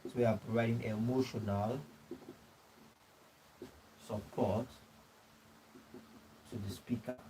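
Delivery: soft, word groups with long pauses; feed the phrase piece by piece for note-taking; dictating slowly. Real, not acted. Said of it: "dictating notes to the class".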